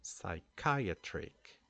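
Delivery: "psychiatric" slowly, starting on an S sound; silent P. Shown as a demonstration. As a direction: begin "psychiatric" with S, no P, CHI stressed. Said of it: "start the pronunciation with the s".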